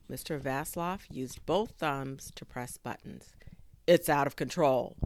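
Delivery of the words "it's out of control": alarmed exclamation. A narrator's reading. Inventor loses control of drone.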